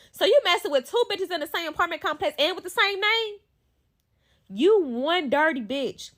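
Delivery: high-pitched incredulous question; indignant disbelief. Acted. Woman confronting man over two women, indignant. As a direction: call him out, voice riding high.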